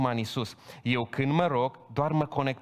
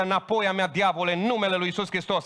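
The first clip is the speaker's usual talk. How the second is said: commanding rebuke; 5 semitones higher than usual. Pretend. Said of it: "ești tare în credință".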